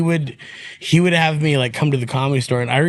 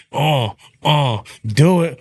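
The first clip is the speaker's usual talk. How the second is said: imitating high friend; slower than usual. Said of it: "he was just like".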